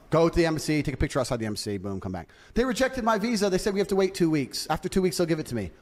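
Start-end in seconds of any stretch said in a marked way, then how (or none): 2.5-5.7 put-on higher, whiny girlfriend excuse; hammed-up girlish pout; mock girl voice. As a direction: whine it like the girl stalling.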